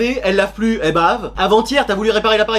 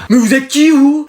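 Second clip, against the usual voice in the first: startled; 4 semitones higher, 5 dB louder, slower than usual. Acted. Startled waking in a dream.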